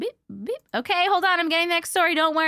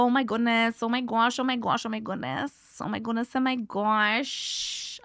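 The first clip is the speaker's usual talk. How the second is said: echolalia stim phrase. Shown as a demonstration. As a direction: rattle off the stim phrase on a loop, fading. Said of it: "loves when I say".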